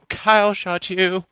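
high-pitched exclamation. Real, not acted. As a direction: let the voice jump up high. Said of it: "why'd you get all high-pitched voice".

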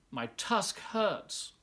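slow, high mock wail; a lightly voiced childish wail. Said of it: "Wilbur wailed".

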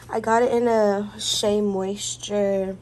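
breathless, winded speech; out of breath. Real, not acted. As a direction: talk while short of breath. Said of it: "I'm out of breath".

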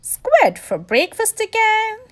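high grumpy complaint; grumpy whine. Acted. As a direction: grumble like a grouchy lobster. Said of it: "He was grumpy when he woke up".

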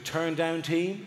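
slow, lightly voiced question with a rising end; chambermaid's query. Chambermaid knocking at the door, lightly imitated slow query. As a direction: ask it slowly, as a modest offer. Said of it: "she goes".

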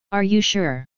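a hint of unease in the question; strange voice. A narrator's reading. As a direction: ask it as if something's off. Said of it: "in a strange voice".

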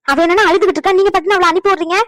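high, loud indignant outburst; yapping protest. Acted. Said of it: "வவு வவுன்னு குலைச்சிக்கிட்டு".

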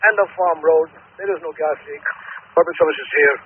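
firefighter over the radio; clipped radio call from a truck; urgent firefighter radio. Real, not acted. Units on radio.

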